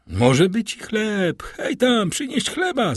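high-pitched call to someone off. A narrator's reading. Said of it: "zawołał".

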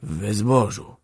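slow, deliberate short answer; measured deathbed voice; distinct, resting between words. A narrator's reading. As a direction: answer clearly, saving strength. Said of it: "mówił wyraźnie, odpoczywając po każdym słowie".

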